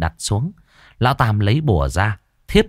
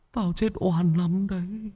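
ghostly wail; 9 semitones higher, 7 dB quieter than usual. A narrator's reading. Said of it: "cất giọng ồm ồm".

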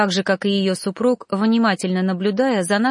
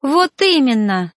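raised, slowed exclamation; shouted reply; 5 semitones higher, 4 dB louder, slower than usual. Acted. Heroine snaps back at her mentor, crying out. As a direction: blurt it out as a cry. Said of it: "закричала".

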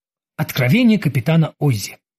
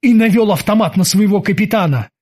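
ordinary delivery

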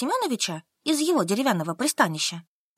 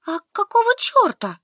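higher and louder indignant outburst; flaring up; 11 semitones higher, 5 dB louder than usual. Acted. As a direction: snap back, flaring up. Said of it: "взвилась Солька". (выше и громче, вспылив)

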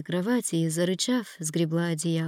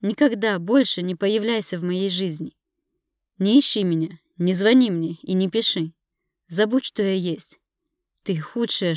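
louder, cold and bitter; bitter renunciation; 5 dB louder than usual. Acted. Wife cutting off her husband forever, bitter and loud. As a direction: cut him off for good.

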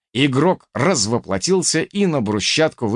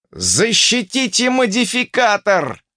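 high, thin, drawn-out cry; thin squeak; 10 semitones higher, 3 dB louder, slower than usual. A narrator's reading. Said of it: "неожиданно тонким голосом пискнул". (пискнуть тонким голосом)

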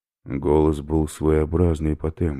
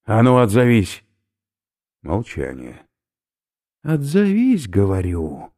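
losing patience; 7 semitones higher, 5 dB louder than usual. Acted. Oberführer loses patience with silent stranger, loud demand. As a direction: demand an answer.

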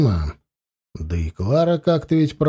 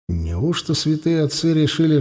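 plain reading voice

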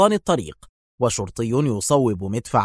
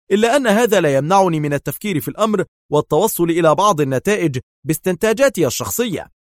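higher, louder strained insistence; tense; 6 semitones higher, 4 dB louder than usual. A narrator's reading. Yael presses Adham about the plan, tense. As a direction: push through with nervous urgency. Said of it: "قبل أن يقول في توتر".

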